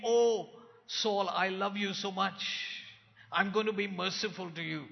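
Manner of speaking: sugary, pleading parody of a gentle Jesus; a syrupy merciful plea; mock tender Jesus. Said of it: "This is not Jesus saying".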